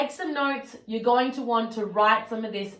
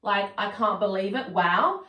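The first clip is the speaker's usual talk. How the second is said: positive disbelief; 3 semitones lower than usual. Shown as a demonstration. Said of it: "maybe something positive has happened".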